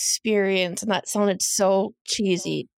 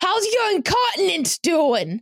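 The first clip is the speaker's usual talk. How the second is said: put-on shrill, very high, loud voice carrying across room; 10 semitones higher than usual. Retelling a nurse's question at a meeting: imitating Deborah's loud voice. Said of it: "a loud voice".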